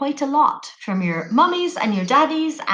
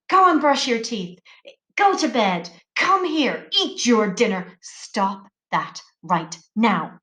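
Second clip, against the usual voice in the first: bossy parent. Shown as a demonstration. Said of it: "it's the tone".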